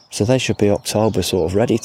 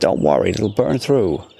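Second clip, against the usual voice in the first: put-on Los Angeles accent. Quoting what a man would say, speaker imitating an la accent. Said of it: "That was my LA accent".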